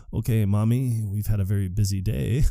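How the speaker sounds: lightly voiced patronizing son; placating son. Secretary putting his mother to bed, mildly placating. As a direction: gently humour an elderly mother. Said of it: "I love the way the secretary talks".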